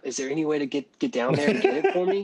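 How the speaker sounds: mock pleading lady.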